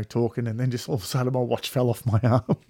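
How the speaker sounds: ordinary talk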